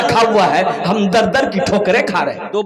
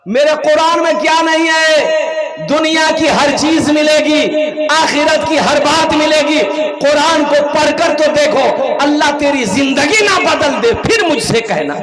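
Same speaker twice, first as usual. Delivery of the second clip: high, rousing crowd address; booming political rally speech; 3 semitones higher than usual. Real, not acted. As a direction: rouse the crowd from the stage. Rally-style preaching to crowd. (जोशीला भाषण, ऊँची आवाज़ में)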